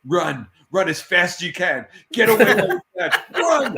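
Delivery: urgent warning. Retold or imitated. Colleague warns the new guy to get away, urgent and building. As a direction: build to an exaggerated, high cry of alarm.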